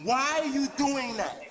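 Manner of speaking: real distress while restrained; distressed protest. Real, not acted. Handcuffed man protests officers.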